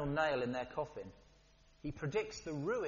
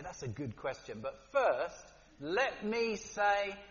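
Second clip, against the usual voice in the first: evasive politician; 2 semitones higher, slower than usual. Retold or imitated. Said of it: "they look you in the eye and they say".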